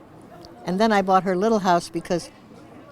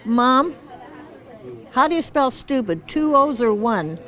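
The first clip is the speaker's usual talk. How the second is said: put-on little girl voice; 6 semitones higher than usual. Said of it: "said to her mother".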